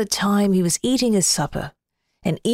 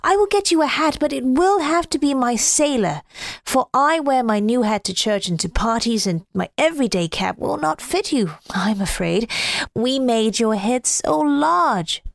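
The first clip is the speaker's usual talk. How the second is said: put-on little boy voice; 2 semitones higher than usual. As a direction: speak as a young boy. Little boy answers snowman.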